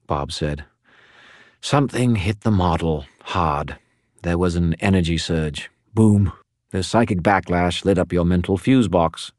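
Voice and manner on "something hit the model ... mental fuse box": a talkative skull spirit, pitched up; Bob the skull. Acted. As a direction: prattle on like a gossipy spirit. Bob explains the surge.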